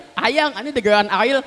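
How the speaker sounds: Ariel said as Ail with the r dropped; childlike cadel speech, r sounds dropped in Ariel; can't say r. Retold or imitated. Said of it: "lidahna cadel".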